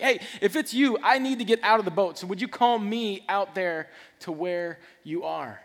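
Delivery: loud, high, urgent call, slowing at the end; acted shout to someone out on the water; Peter's urgent plea. Acting Peter desperate to leave boat.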